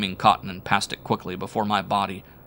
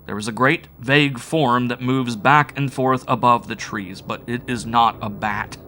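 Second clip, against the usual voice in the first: loud, higher, desperate insisting; panicked insistence; frantic denial; 4 semitones higher, 7 dB louder than usual. A narrator's reading. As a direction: stress on not, frantic. Narrator shrieking denial.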